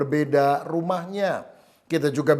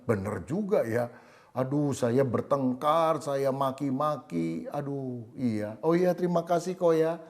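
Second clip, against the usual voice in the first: quiet remorse; 6 dB quieter than usual. Retold or imitated. Husband touched and remorseful.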